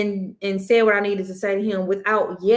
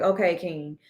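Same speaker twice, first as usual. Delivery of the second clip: calm and understanding. Retold or imitated. Mother calmly soothes her sick son, gentle and understanding. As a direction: talk him down kindly instead of yelling. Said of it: "taking a step back and being like".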